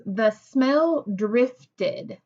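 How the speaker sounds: "The smell drifted" read slowly and evenly, falling at the end; calm, drawn-out statement; slow plain statement. Shown as a demonstration. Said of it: "Is that a sentence that I would read excited?".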